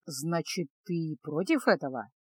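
low, soft, seductive question; sultry. Acted. Томным голосом.

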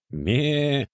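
high bleating Ме; goat bleat. A narrator's reading. Locked goat joining the racket, high bleat.

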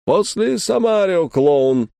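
high-pitched eager announcement, falling on the last word; excited backstage cue. Acted. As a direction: call out the next act excitedly. Frenchman excitedly briefs his assistant. (взволнованно, высоким голосом)

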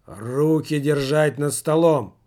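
loud, harsh order to the table; gruff shouted order; rough command. Acted. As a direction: bark it out roughly. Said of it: "совсем уж грубо воскликнул".

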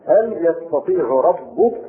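slow يستطيع ربك with the ya prefix; يستطيع ربك, yastatiʿ rabbuka; reading with ya. Shown as a demonstration. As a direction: slowly read يستطيع with ya-. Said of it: "بالياء على أنها فعل".

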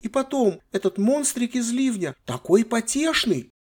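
put-on high, childish complaining voice; spoiled girl. Granddaughter complaining to her grandfather, high and childish. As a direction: whine like a bored teenage girl. Sylvia's voice in the story.

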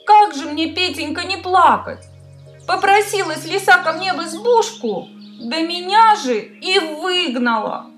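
high, tearful hare voice; a little hare crying its woes. Acted. Hare complains to rooster.

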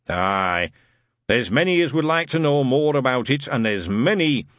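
put-on old Scotch growl fading away; trailing off ominously. Shadwell warning Newton, fading ominously. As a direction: let it trail off impressively. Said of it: "the voice trailed off impressively".

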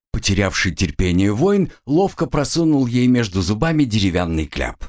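usual speaking voice

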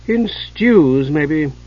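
dry sigh. Acted. Chislev teasing Hidjukel about rabbits, sighing dryly. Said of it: "Chislev sighed".

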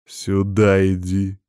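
slow, menacing growl. Acted. Man savours her retreat, slow growled order. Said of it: "прорычал я".

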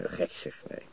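breathy whispered scoff. Acted. Beck whispers a scoffing denial to his lover. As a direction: drop to a whisper, amused. Night in the park, retold.

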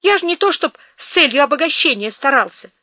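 high, brisk cheerfulness; forced cheer. Acted. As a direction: put on a brave face. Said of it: "говорил бодро Федот".

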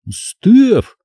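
high, sharp call of her name; boy calling out. A narrator's reading. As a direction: call her back, alarmed. Дуан кричит, Стеф не слышит. (мальчик окликает)

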